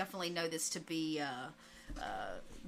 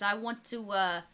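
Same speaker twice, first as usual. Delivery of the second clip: lightly voiced mob boss on the phone; a hint of an old-time gangster; Capone. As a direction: play a gangster boss taking a call. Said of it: "And the voice of Capone comes on".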